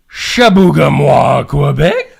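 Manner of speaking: Chabougamau, Quebec said the French way, shah-boo-ga-MWAH, slow; French pronunciation. Shown as a demonstration. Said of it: "I think I might have got it".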